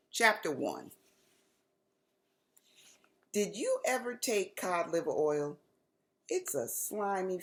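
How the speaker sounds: lively read-aloud storytelling voice; story narration. A narrator's reading. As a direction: tell it like reading to kids. Author reads her chapter book aloud.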